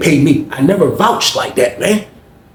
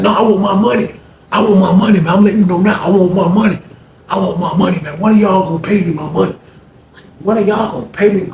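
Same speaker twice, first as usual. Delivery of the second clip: angry demand; 5 semitones higher than usual. Retold or imitated. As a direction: hammer it home, raised and pushy. Fred demanding money from inmates.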